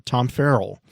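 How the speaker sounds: ordinary talk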